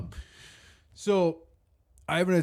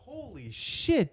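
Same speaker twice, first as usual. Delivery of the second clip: high, soft, drawn-out awe; retold amazement; 10 semitones higher, 8 dB quieter, much slower than usual. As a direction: stretch it out in hushed mock shock. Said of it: "I'm like".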